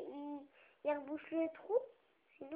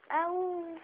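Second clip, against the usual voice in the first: wolf howl; 3 semitones higher, 5 dB louder than usual. Pretend. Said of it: "On entendit le loup faire".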